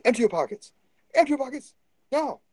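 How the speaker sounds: put-on high, loud Indian shopkeeper accent; Indian accent impression. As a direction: bark orders in a mock Indian accent. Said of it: "accuracy of accent replication is unimportant".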